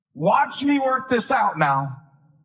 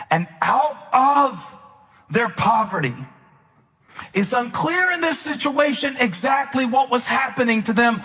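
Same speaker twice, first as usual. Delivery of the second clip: raised, emphatic sermon delivery; preaching; 6 semitones higher than usual. Real, not acted. Preacher tells congregation of a poor church's giving, preaching. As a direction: preach it with mounting force. Preacher builds to full force.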